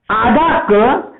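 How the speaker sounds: आधा क और अ spelled out very slowly; very slow demo. Shown as a demonstration. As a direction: break आधा क और अ apart sound by sound. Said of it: "इन दोनों के मेल से".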